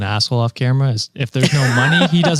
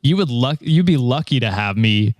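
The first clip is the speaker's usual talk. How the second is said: nasal smug neckbeard. Acted. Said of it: "Give me your best neckbeard impression".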